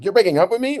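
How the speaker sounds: high-pitched mock white girl voice. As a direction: put on a white girl voice, playing for laughs. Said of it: "did the whole white girl voice".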